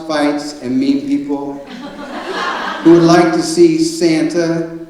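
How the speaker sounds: put-on slow, fond reading of a child's bio; reading aloud. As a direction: read it out gently, word by word. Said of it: "It says".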